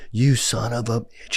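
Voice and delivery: a hint of the speaker ribbing his friend; lightly voiced playful insult; affectionate mock cursing; teasing buddy.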